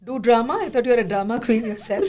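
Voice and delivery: a mother's teasing jab, brisk at the end; lightly voiced mother, rattling off the drama queen dig; mimicking mother. Guest imitating her mother teasing her about drama class, lightly mocking. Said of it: "My mother, of course, said".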